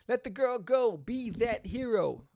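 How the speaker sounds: put-on loud, firm call to let the girl go; acted demand. Reading the heroine's line, loud stern demand. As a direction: order him to free her, strong and high.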